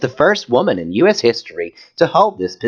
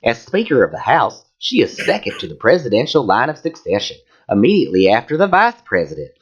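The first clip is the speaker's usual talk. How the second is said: campy Southern reading voice; lilting hammed-up Southern accent; put-on Southern accent. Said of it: "I don't know why I'm doing this voice".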